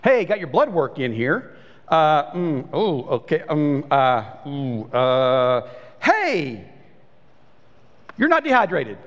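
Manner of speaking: evasive doctor. Pretend. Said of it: "What if you went to a doctor and they only told you the good news?".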